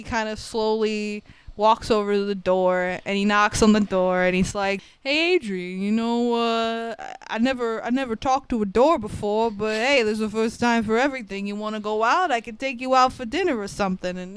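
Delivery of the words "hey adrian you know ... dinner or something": Rocky. Retold or imitated. Rocky coaxing through the bedroom door.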